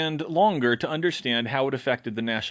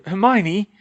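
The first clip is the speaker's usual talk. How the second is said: higher, louder cry of her name; anguished cry; 8 semitones higher, 7 dB louder than usual. Acted. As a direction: call out to her in dismay. Ron crying out her name.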